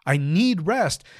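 slow, emphatic eager yes; a touch of acted eagerness; mildly acted excitement. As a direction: lean on each word with longing. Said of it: "starting to feel a little bit excited".

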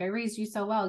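mock proud mentor. Joking with her mentor, a hammed-up proud-parent voice. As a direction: lightly ham up the proud mentor line. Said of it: "we always laugh".

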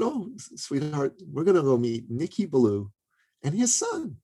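a hint of motherly sweetness; imitated tender mother. Mother answering her little son.

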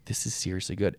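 whispered guilty pleasure; secret whisper. Retold or imitated. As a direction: confide it under your breath. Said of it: "I would not say that out loud".

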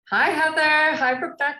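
high, bright hello; excited greeting. Real, not acted. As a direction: call out a cheery hi. Greeting viewer by name.

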